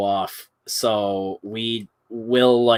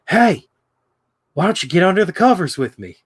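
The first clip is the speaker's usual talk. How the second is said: higher, quick bad Australian accent of a grown man; "covers" in a mock Australian twang, much higher, faster; 6 semitones higher, 3 dB louder than usual. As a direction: toy bear in a bad Australian accent inviting you under the covers. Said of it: "grown man, like, doing, like, a bad, almost, like, Australian accent".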